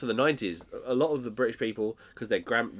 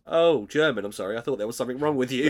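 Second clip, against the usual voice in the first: mock Basil; 2 semitones higher, 4 dB louder than usual. Basil quoted, loud then fast.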